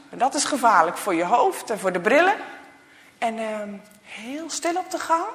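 1 jolly teacher. Acted. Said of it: "zien ze zijn ogen lachen".

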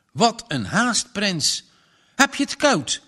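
a mother talking to the dog; farm wife to dog. Acted. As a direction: fuss over the dog like an old farm wife.

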